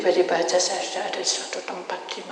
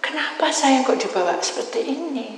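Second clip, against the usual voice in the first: crying; 6 semitones higher than usual. Retold or imitated. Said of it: "Terus saya nangis".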